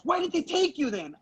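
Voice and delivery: high-pitched alarmed mom question; mock maternal panic; panicked mom. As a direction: demand it like a fretting mother, acted. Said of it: "went into full-on panic mode".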